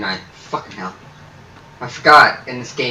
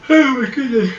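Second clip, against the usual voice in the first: startled; 11 semitones higher, 6 dB louder than usual. Real, not acted. Startled gamer reacting to game.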